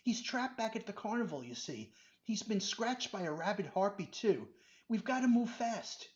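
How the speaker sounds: frantic pleading. Acted. Benji begging Doctor Rubin to save Robert, frantic. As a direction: pour it out in panic.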